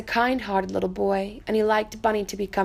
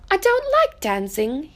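lightly voiced little rabbit, stubborn; little rabbit refusing; 5 semitones higher than usual. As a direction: fib that you don't care. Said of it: "he said".

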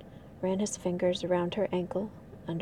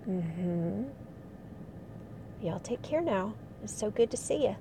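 Southern accent. Shown as a demonstration. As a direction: sound like a good old boy with a Southern accent. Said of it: "slip into the Southern accent".

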